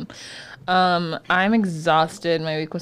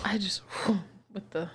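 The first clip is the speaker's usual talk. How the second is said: breathy pained whisper; 11 dB quieter than usual. Real, not acted. Cohost hurting herself mid-talk, whispering in pain. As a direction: hiss it after bumping yourself.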